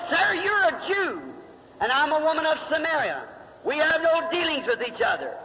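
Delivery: Samaritan woman. Acted. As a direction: lift the voice and play the wary woman. Preacher voices the Samaritan woman.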